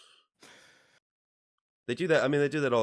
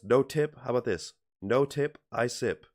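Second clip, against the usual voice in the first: imitating Asian accent; 4 semitones higher, 4 dB louder than usual. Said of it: "And he says".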